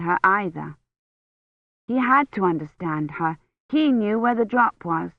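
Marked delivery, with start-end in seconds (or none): none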